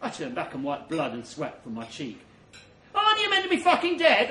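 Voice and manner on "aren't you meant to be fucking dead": fast, high, loud disbelief; incredulous shout. Acted. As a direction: fire it back in disbelief. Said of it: "I say".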